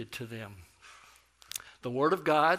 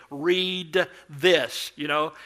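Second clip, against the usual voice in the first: loud, higher mock shout at someone who can't understand; louder; 4 semitones higher, 12 dB louder, much slower than usual. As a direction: bellow it like volume will translate. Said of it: "We would say it louder".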